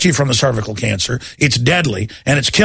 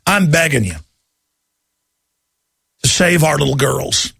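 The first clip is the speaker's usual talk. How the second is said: usual speaking voice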